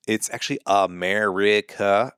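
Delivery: "America" sounded out syllable by syllable; mock correction. Mimicking a nitpicker fixing someone's accent, mock-pedantic correction. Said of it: "I would never correct them and be like".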